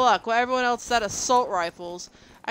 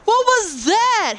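slow, loud high what was that; stunned disbelief; 13 semitones higher, 7 dB louder, slower than usual. Real, not acted. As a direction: drag it out in shock. Stunned again.

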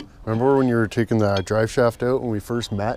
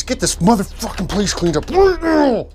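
higher, bossy mock police voice; mock cop order; 7 semitones higher than usual. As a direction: play a stern cop barking orders. Mock cop bossing around.

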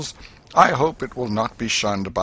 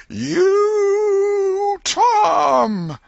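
long, high, loud call held out; shouted for distance; 8 dB louder than usual. A narrator's reading. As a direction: lift your voice to carry far outside.

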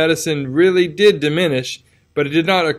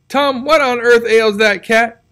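Aunt Polly voice, higher and slow; an old aunt demanding answers, drawn out; startled Aunt Polly; 8 semitones higher, 4 dB louder, slower than usual. A narrator's reading. Aunt Polly asks Tom about the cat, higher and alarmed.

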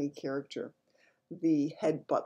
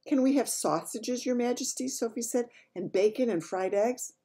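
Sophie voice; 7 semitones higher than usual. Acted. Sophie asking the Queen.

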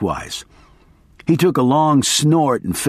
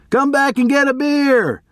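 much higher, held calling voice; yelled offer; 14 semitones higher than usual. A narrator's reading. Narrator's high call after the hitchhiker. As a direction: call it far down the road. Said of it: "I yelled".

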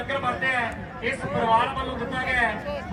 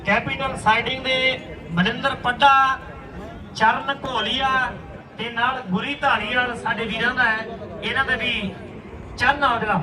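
frantic rural sports commentary; 3 dB louder than usual. Acted. Loud live kabaddi commentary.

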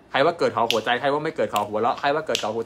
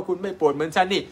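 mock complaining; 8 semitones higher, 6 dB louder than usual. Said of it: "ไปโวยวายสามี โวยวายภรรยาว่า".

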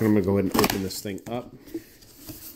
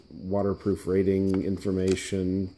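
ordinary delivery

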